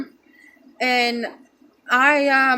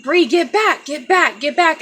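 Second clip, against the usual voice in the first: retold urgent get back, higher and raised; urgent command; 5 semitones higher, 4 dB louder than usual. Stepdad telling Bree to step back: urgent raised command. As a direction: echo stepdad pushing her away from the body.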